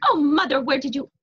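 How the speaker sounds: loud, high amazed question; high, astonished outburst; excited shout. A narrator's reading. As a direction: exclaim it loudly to mother. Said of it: "shouted Martin".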